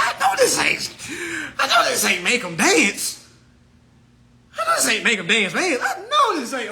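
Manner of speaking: high, laughing protest breaking into giggles; laughing disbelief. Retold or imitated. Laughing at the tag while reading it to viewers. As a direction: laugh through the denial. Mock-outraged retelling, laughing.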